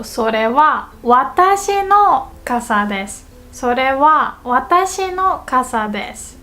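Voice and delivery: 私の lifted after a pause; teacher's demo emphasizing 私の; stress on 私の. Shown as a demonstration. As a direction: lean on 私の, the part after は. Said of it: "we would use the wa particle".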